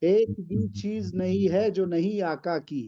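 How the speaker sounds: slow, measured verse recital; poem recitation. Acted. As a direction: recite the couplet with weight. Recites a naat couplet.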